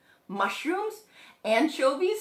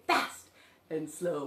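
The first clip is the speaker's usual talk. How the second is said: short quick "Fast", drawn-out low "slow"; fast, then slow; 8 semitones lower, 6 dB quieter than usual. Shown as a demonstration. Having children say the words, pace shown in each. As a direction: snap "Fast", stretch "slow". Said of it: "and say".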